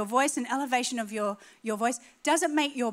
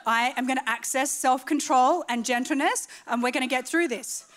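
calm restraint. Retold or imitated. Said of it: "So I'd be like".

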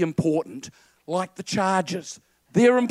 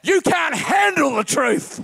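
loud, higher barked movie line; Jack Nicholson impression; 7 semitones higher, 4 dB louder than usual. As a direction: snap it like the angry colonel. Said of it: "it's Jack Nicholson".

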